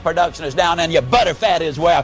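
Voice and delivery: mock angry farmer chewing out his cow; gruff scolding. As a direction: scold the cow to get up, impatient and hammed-up. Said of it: "give her a big kick and say".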